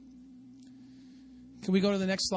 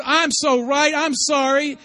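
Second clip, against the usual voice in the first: mock arrogance; 3 semitones higher, 5 dB louder than usual. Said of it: "That's that arrogance".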